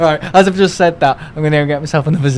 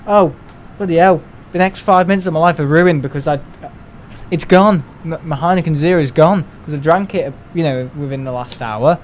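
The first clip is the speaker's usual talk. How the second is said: mock moaning. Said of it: "I could moan about it going".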